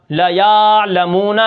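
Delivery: لَيَعْلَمُونَ slowly, the ya drawn long; stretched ya. Shown as a demonstration. Teacher demonstrating the wrong stretched ya to students. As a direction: lengthen the ya in لَيَعْلَمُونَ. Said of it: "آپ یا کو بڑھا دیتے ہیں".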